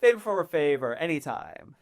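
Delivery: delighted socialite saying yes; gushing agreement. Acted. Noble jumping at a favor for a favor, gushing. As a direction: burst out high and loud, then settle down.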